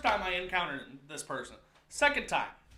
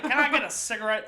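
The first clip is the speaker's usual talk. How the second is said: higher puppet-villain voice; Muppet version of the Joker; 4 semitones higher, 4 dB louder than usual. Retold or imitated. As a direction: wheedle like a cartoon puppet baddie. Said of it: "like a Muppet version of the Joker".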